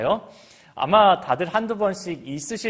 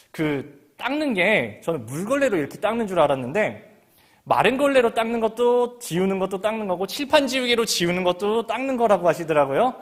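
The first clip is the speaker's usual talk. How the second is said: ordinary delivery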